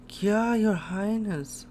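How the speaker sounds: high, mock-horrified cry; acted high-pitched shriek for the king; alarmed cry. Voices cry for killed king.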